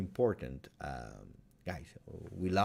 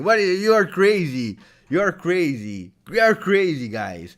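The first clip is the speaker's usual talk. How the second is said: loud, high exclamation of disbelief; real joyful outburst at the viewers; delighted disbelief; 8 semitones higher, 10 dB louder than usual. Real, not acted. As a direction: shout it, thrilled and overwhelmed. Overwhelmed by viewer donations.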